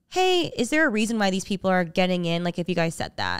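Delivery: plain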